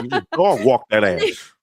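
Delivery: slow, low, put-on tough voice; lightly voiced tough guy taunting Solo; mock Jacob catchphrase. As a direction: drag out the taunt like a swaggering wrestler. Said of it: "seeing you as cross-eyed".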